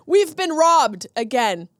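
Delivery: slow theatrical grief, tongue in cheek; mock dramatic lament. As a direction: ham up the tragedy of it. Mock despair at stolen pies.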